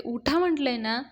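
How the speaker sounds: acted scolding yell. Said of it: "मग ती ओरडते".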